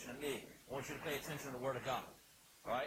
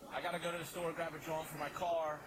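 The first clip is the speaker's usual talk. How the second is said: louder Philly everyday jawn talk; Philly slang demo; 2 semitones higher, 4 dB louder than usual. Shown as a demonstration. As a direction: chat like a Philly local. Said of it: "it's universal in Philly".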